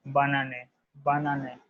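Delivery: banane said as "ba-nah-neh", each syllable clear; French banane drill. Shown as a demonstration. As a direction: repeat banane carefully, teacher modelling. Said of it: "will be pronunciated as".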